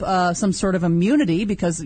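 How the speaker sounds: ordinary talk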